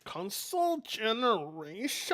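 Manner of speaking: slow, drawn-out mimicry; mocking echo. Streamer parrots the video's phrase, mockingly drawn out. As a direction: stretch it out and let the last sound trail. Echoes the other speaker, drawn out.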